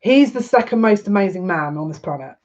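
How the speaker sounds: choked-up, halting praise with long pauses; holding back tears. Real, not acted. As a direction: stop yourself crying mid-tribute. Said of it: "'cause I don't wanna cry".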